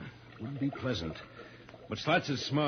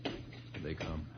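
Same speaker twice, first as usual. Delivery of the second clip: slow, hushed words in hiding; hiding from passing guards, hushed; 3 semitones lower, 6 dB quieter, slower than usual. Acted. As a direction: keep it low so they don't hear.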